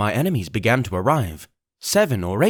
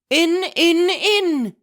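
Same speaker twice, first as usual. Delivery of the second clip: high, louder furious shout; 3 dB louder, much slower than usual. Acted. Blind man urges his men inside, shouting. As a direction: yell them through the door. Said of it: "he shouted".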